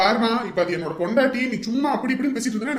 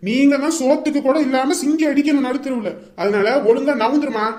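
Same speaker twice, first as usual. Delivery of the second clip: angry threat; 2 semitones higher, 4 dB louder than usual. Acted. Son threatens mother blocking the door.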